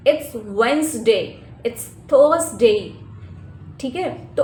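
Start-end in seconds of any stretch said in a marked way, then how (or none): 0.1-2.8 Wednesday as wenz-day, slow and careful; correct day names. Shown as a demonstration. Teacher showing the right days, slow and careful. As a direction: say Wednesday without the d, slowly. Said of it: "no, not like that".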